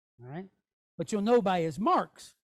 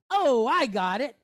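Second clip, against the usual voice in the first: loud, stretched-out acted "aha"; sudden realisation; 5 dB louder than usual. Teacher acts student who suddenly gets it, loud realisation. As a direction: burst out as it suddenly clicks, slowly drawn. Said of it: "all of a sudden you're like".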